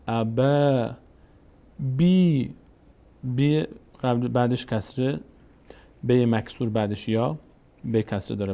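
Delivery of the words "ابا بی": ابا with a held final "aa", then long بی; long vowels. Shown as a demonstration. Teacher showing the alef sound, long vowels. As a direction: stretch the end of ابا and the ee of بی.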